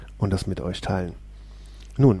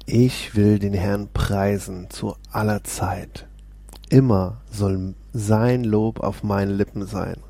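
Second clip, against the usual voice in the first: scripture reading; slower than usual. Acted. Reads Psalm aloud.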